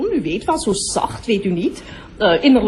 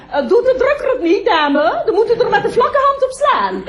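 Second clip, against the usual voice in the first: polite aside to a customer; 12 semitones higher than usual. Acted. Aside helping a customer at the door.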